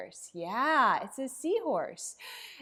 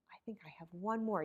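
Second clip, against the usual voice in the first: whisper; 5 semitones lower, 6 dB quieter, much faster than usual. Pretend. Teasing next puppet reveal.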